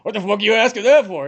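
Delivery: hammed-up indignant question; mock indignant outburst. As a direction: play it offended, half joking. Nolte offended.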